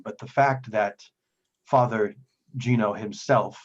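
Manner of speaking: lightly voiced solemn priest; measured, formal phrases with weighty pauses; reverent devout priest.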